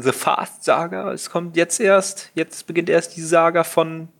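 slow, grand trailer announcement; epic title voice. Shown as a demonstration. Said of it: "Weil hört sich so an". (langsam und episch wie ein Filmtrailer)

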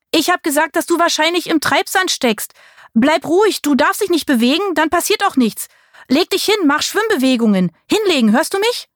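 high, urgent calling; calling out urgently. A narrator's reading. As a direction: call across the beach to him. Marie calls instructions across sand.

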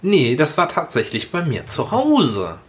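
a funny lilt creeping into the story; speaking oddly. Real, not acted. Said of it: "Wieso sprichst du so komisch?". (komisch betont erzählt)

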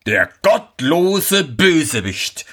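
langsam, hoch und empört ausgestoßen; zorniger Schneider. Acted. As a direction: ein wütender Vater verflucht seinen Sohn. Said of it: "schrie der Schneider". (empörter Ausruf, langsam)

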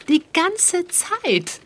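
accuser's theatrical closing line; dramatic flourish. Acted. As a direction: stretch it for drama.

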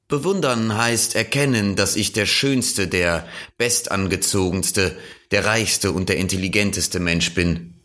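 a hint of a show-off listing his virtues; vain man. (eitler Angeber, prahlerisch)

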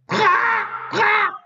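high, fast cawing bird voice; crow. Acted. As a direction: caw like a crow. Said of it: "antwortete Feuerstorch".

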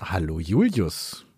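deep, slow and quiet hello; low mumbled greeting. Pretend. Playful greeting round, silly voices.

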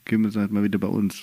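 quick, low mock East German accent; badly faked East German dialect. Teasing the dialect until the co-host objects, mock East German. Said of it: "Nick, lass es lieber".

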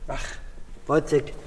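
Wozzeck said low and soft; quiet stage murmur of Wozzeck; softly spoken. Acted. Acted scene, name said again softly.

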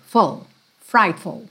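"full, frightful" said slowly with a light "ful"; slow, keep "ful" weak in "frightful"; light unstressed ful. Shown as a demonstration. Teacher modeling the unstressed suffix in "frightful". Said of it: "A sílaba tônica tá no fright".

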